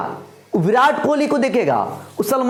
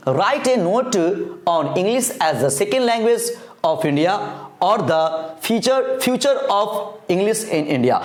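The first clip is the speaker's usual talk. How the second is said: slow, word-by-word reading of the English text; slow dictation reading; much slower than usual. Acted. Teacher dictating the note to students, slow and even. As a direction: read it slowly so students can write along. Reads the question slowly.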